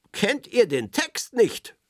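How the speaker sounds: slow, stern question; a mock-strict teacher voice. A narrator's reading. Berti scolds the children about the lyrics, slow and strict. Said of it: "fragt er streng".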